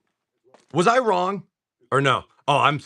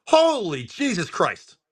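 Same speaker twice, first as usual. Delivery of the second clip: drawn-out, high-pitched amazement; astonished; 7 semitones higher, slower than usual. Real, not acted. Seller reacting to a big card pull, astonished. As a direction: stretch it out high in disbelief.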